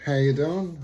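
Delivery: stuffy nose from a cold; nasal, blocked-up voice. Real, not acted. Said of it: "excuse my little nasally voice".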